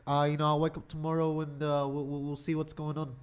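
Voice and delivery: put-on New Zealand accent. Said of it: "That was a terrible New Zealand accent".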